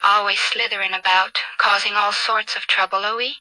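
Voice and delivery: a hint of aristocratic French accent; lightly played snooty French aristocrat. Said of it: "with a snooty aristocratic French accent".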